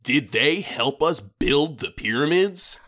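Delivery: slow, dramatic TV narrator; documentary narrator. Pretend. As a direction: drag out the teaser like a TV documentary. Parodies History Channel narrator.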